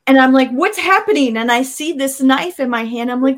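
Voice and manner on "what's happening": higher-pitched startled question; retold startled reaction; suddenly jolted into asking. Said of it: "I was startled".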